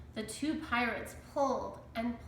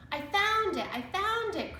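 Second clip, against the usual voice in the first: much higher, louder thrilled shout; excited cry; 11 semitones higher, 4 dB louder than usual. A narrator's reading. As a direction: burst out with discovery. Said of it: "cried Jack".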